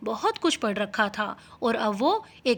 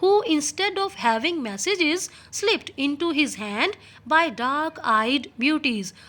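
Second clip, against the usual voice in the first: reading the English text slowly and clearly; 2 semitones higher, much slower than usual. Shown as a demonstration. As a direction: read each word out slowly for the class. Teacher reads English text aloud. (धीमी आवाज़ में पाठ पढ़ना)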